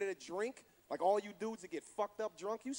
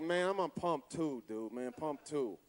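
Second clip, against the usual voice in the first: lower, slow, fading stoner mumble; stoned customer; 6 semitones lower, slower than usual. Retold or imitated. Stoned guy at gas station.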